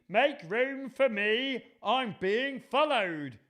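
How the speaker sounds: high, loud, stretched cry; panicked giraffe character. Acted. Giraffe being chased into the bath, high urgent call.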